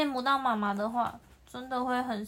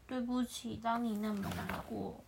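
softer, gentle sorry; soft apology; 6 dB quieter than usual. Acted. The lion apologising to the antelope, soft and sincere.

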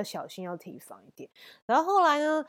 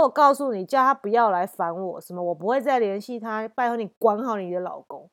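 loud retort; 4 dB louder than usual. Retold or imitated. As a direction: lay down the law to her. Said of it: "很大声呛回去".

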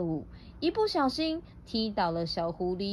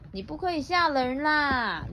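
understated storybook scolding; gently acted telling-off, rising at the end; mildly angry; 4 semitones higher than usual. Rabbits telling the bear not to scare, mildly angry. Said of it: "生气地说".

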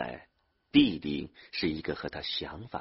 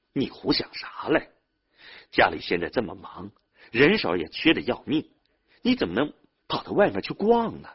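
raised, higher-pitched annoyed reproach; angry scolding; 5 semitones higher, 5 dB louder than usual. A narrator's reading. Older brother scolding younger one for wanting to leave, angry. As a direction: scold with mounting exasperation. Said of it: "他很生气地对弟弟说".

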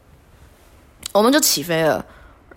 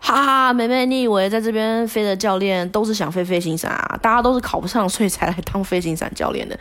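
higher, lightly voiced laughing coach; 3 semitones higher than usual. Coach laughing that all instructors failed too, lightly higher. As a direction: tease her with a laugh. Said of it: "他就说".

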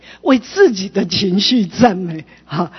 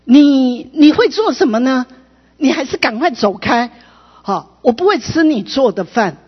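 retold scolding, a little raised at the start; mildly scolding father; 4 semitones higher than usual. Father scolds his child cooking beside him, mildly mimicked scolding. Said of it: "他爸爸就很大声的在那骂他说".

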